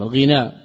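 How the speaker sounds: الغنى as ghinaa, "i" after the ghayn and a long final aa; kasra with madd on الغنى. Shown as a demonstration. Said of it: "وبالكسر مع المد". (الغنى بكسر الغين مع المد)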